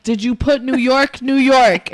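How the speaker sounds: exasperated repeat of "New York, New York"; insistent repeat. Retold or imitated. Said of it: "I'm like".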